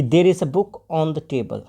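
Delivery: slow, careful drill sentence; slow student repeat. Shown as a demonstration. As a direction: speak it slowly like a learner. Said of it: "ये students ने बोला".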